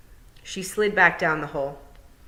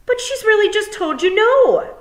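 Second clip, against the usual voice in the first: high, loud outburst; bursting out; 9 dB louder than usual. Acted. Fionn protesting to the pixies, blurting loudly. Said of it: "Fionn burst out".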